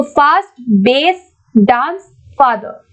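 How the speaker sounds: slow, separated "फास्ट, बेस, डांस, फादर"; word-by-word demo. Shown as a demonstration. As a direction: say each word on its own so the vowel in "बेस" stands out from the others. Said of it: "इसको हमें बोल के देखना पड़ेगा". (हर शब्द धीरे, अलग-अलग बोलना)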